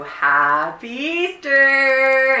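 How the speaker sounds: slow, bright, loud holiday wish; cheerful greeting. Real, not acted. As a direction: sing out the greeting.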